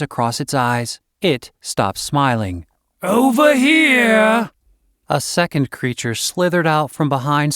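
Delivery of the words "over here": high, slow hissing serpent woman calling out; a snake-woman calling from the brush; female serpent call. A narrator's reading. Serpent woman calling to the captives, high and drawn out. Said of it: "asked a female serpentine voice".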